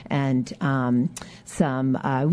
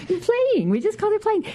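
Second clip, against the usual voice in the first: laughing. Real, not acted. Echoes host, laughing, very high.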